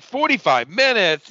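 high, drawn-out whiny disbelief, imitating her; mock whining. Girlfriend told to wait for dinner, mock whining. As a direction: stretch it out in a mocking whine. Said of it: "like, whining about everything".

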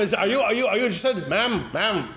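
high nervous asking voice; awkward guy asking. Retold or imitated. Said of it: "Excuse me, ma'am".

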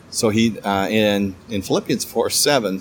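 halting, with fillers and a repeated word; slight stammering. Real, not acted. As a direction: stumble a little getting to the reference. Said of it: "sorry, I'm kinda stuttering a little bit".

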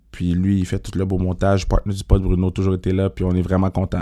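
hoarse, tired morning voice; rough-voiced after a bad night. Real, not acted. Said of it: "vous pouvez l'entendre dans ma voix rauque".

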